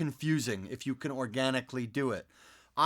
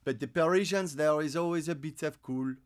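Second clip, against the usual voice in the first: lightly French-accented English; Parisian accent. Shown as a demonstration. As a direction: slip back into a Parisian accent. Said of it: "doing the French accent or a Parisian accent".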